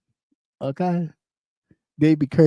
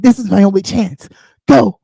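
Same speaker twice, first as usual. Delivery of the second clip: mock urgent inner voice; 4 semitones higher, 5 dB louder than usual. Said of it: "It's like".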